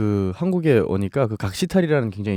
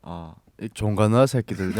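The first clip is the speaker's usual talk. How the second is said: Hamgyong dialect. Acted. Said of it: "함경도 말투는 살짝 좀 써준다면".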